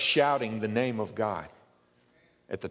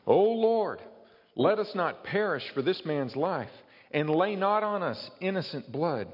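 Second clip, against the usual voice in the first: high, desperate cry to the Lord; pleading sailors' prayer; 8 semitones higher than usual. Acted. Preacher voicing sailors crying out to God, pleading and high. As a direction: cry out like sailors begging for mercy.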